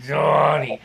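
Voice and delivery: drawn-out call of a son's name; imitating his dad. Dad calling his son Donnie, mild imitation. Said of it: "that's the way he talked".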